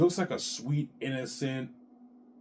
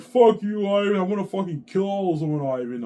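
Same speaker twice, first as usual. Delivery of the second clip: much higher and louder mock furious yell; imitating wife's rage; 8 semitones higher, 7 dB louder than usual. Wife cursing husband over other women, mock furious shout. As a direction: throw it at him like a hysterical wife, hammed up. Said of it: "She'll be crying to me every night".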